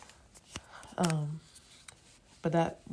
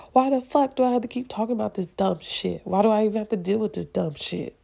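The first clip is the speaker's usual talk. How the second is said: frustrated outburst; 4 semitones higher, 5 dB louder than usual. Real, not acted. Frustrated outburst about talking.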